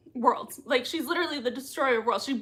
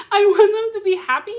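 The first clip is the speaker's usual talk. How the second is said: laughing; 9 semitones higher, 8 dB louder than usual. Real, not acted. Laughing while wishing.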